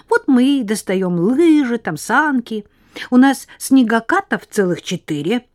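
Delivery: put-on high, bright, rapid girl's chatter; chatty little girl. Chatty girl Lena voiced.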